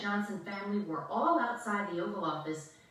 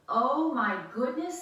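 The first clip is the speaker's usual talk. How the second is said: surprised; 5 semitones higher, 6 dB louder than usual. Acted. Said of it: "said Missus Johnson".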